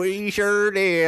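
slow, high country accent. Shown as a demonstration. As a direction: redo it in a hammed-up country accent. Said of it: "Oh, was that your country accent?".

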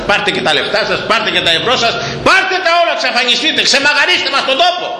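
shouted, high dismissal; rising to a high shouted "get out"; defiant outburst. Acted. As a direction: fling the money back in their faces. Preacher shouts at the rich.

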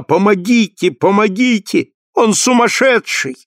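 high, frantic call for help; terrified cry for help. A narrator's reading. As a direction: scream for help in terror. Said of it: "стала кричать". (испуганный крик о помощи, голос выше)

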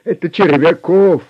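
loud, high screamed name; desperate shout. A narrator's reading. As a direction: scream it before they stop you. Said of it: "закричал пленник". (отчаянный громкий крик)

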